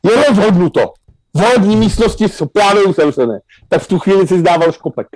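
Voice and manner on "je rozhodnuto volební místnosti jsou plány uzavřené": lightly imitated TV election announcer; higher-pitched mock proclamation of an official result; Jakub Železný. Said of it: "Jakub Železný řekl". (lehce napodobený televizní moderátor při slavnostním vyhlášení)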